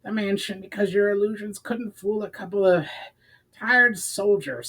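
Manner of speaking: high, snarling and breathless; snarling small companion. A narrator's reading. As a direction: snap back high and accusing. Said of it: "snarled the shortest".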